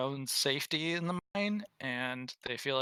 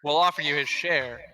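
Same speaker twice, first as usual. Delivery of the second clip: put-on Scottish accent; 8 dB louder, faster than usual. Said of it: "really bad Scottish accents".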